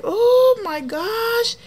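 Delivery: high, slow, loud oh my gosh; drawn-out disbelief, way up high; exasperated. Retold or imitated. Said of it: "I was like".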